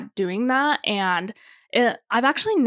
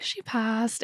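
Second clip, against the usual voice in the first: softly; 7 dB quieter than usual. Retold or imitated. Bride telling the photographer gently, quietly. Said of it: "She didn't say it like that".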